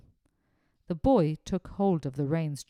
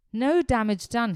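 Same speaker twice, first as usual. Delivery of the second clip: relieved exclamation; 5 semitones higher, 8 dB louder than usual. Acted. Groom checking horse, relieved.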